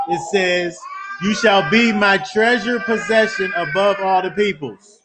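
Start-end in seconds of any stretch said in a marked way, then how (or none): 1.2-4.9 preaching shout. Real, not acted. Preacher proclaiming the scripture promise.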